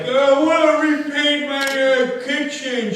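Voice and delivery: a hint of a chatty housewife customer; mock customer. Mimicking a paint customer.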